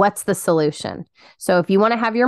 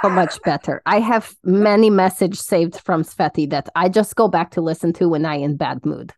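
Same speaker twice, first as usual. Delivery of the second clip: playful fake Russian accent; put-on Russian accent; 2 semitones lower than usual. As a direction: join in as a Russian alter ego. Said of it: "we say it in this accent".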